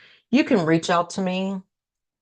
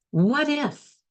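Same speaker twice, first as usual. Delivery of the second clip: hopeful what if; 8 semitones higher than usual. Shown as a demonstration. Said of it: "Do you hear the difference?".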